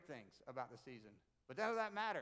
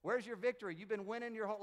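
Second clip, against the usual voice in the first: loud mocking trash talk, raised high; Paul taunting death; 4 semitones higher, 5 dB louder than usual. Paul trash-talking death, loud mocking taunt. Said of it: "He's saying".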